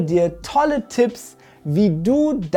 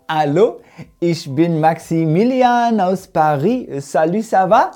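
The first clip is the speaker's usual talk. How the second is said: put-on French accent; faster than usual. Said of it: "finde einen französischen Akzent ... richtig cool".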